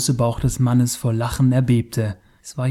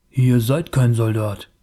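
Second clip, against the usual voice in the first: hissing. Acted. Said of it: "zischte der Fremde".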